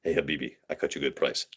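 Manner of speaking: lightly voiced shopkeeper cutting a deal; store owner voice. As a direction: coax a customer like a pushy shopkeeper. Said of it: "haggling store owner voiced".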